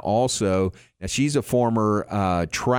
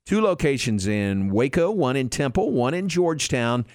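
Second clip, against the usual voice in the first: upbeat sponsor read. Acted. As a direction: read the sponsor spot brightly. Live ad read by host.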